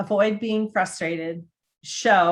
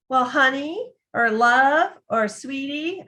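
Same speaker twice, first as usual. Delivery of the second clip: higher, lightly sing-song pet names; sugary pet names; 7 semitones higher, 3 dB louder, slower than usual. Retold or imitated. Demeaning waitress calling diners pet names, lightly mocked in a higher sing-song. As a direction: coo each pet name like to a child. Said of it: "You don't need to be sing-songy".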